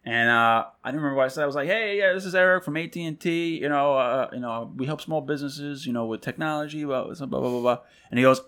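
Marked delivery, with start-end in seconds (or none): 1.7-7.8 lightly voiced salesman, higher and softer; mock phone sales patter, trailing into blahs; cold-call pitch. Rep introducing himself to a small business, mock sales pitch.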